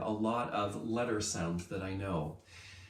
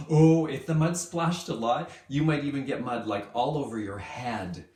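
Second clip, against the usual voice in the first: excited; 2 semitones higher, 6 dB louder than usual. Acted. Excited about mud idea.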